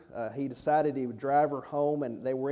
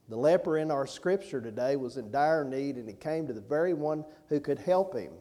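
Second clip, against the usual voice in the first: usual speaking voice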